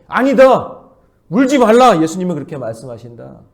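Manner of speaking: loud, high, commanding reply; voice of Jesus. Retold or imitated. Jesus rebuking the voices of death, loud and commanding. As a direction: answer the world with authority. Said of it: "그렇게 얘기하신다".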